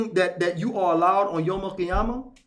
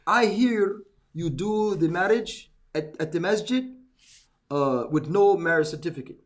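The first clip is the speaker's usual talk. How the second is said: put-on Jordanian accent. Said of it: "in his Jordanian accent".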